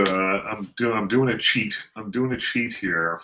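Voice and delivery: choppy connection, words repeating; breaking up over a bad line; buffering stutter. Real, not acted. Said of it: "you cut out for a sec".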